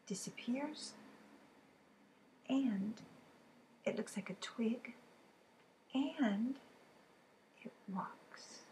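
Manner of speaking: secretive hint giving; teacher whispering riddle clues; whispered clues. Real, not acted. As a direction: whisper the hints.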